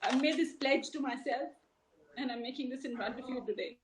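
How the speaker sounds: real tearful pledge, with halting pauses; on the verge of crying. Real, not acted. A mother pledging to fight for Jia, close to crying. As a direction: push on through tears, stopping to recover. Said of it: "Don't cry".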